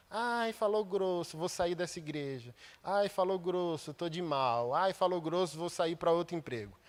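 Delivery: preacher mocking the oversensitive young, whiny sneer; mocking whine. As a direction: whine like someone offended by a stern word. Mocking the touchy generation.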